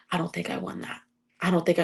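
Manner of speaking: near-whispered, choked-up words; small broken voice after the fight; tearful hushed retelling. Retold or imitated. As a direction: half-whisper them as if fighting back tears. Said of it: "like, I'm crying".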